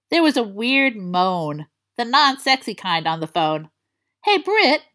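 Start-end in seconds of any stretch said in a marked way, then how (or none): 4.2-4.8 put-on high, rough voice of a sick boy; croaky sick greeting. A narrator's reading. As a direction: rasp it like you have a cold. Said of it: "a rough-sounding voice answered back".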